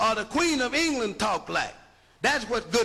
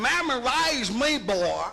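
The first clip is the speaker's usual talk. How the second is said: Southern drawl. Retold or imitated. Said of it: "the white boy down there tell you".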